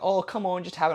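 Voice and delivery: lightly hammed-up peer pressure; coaxing friend. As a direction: imitate a friend egging someone on. Mimicking people coaxing him to eat.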